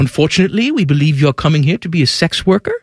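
polite mock New Zealand accent; put-on New Zealand officialese accent. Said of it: "stop doing this accent".

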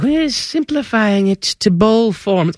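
mocking quote. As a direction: mimic the complaint with disdain.

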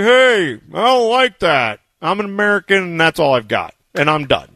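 mock feeble protest, high then dropping; self-mocking weak retort; lame American comeback. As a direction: start indignant and high, then give up. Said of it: "so much better than me being like".

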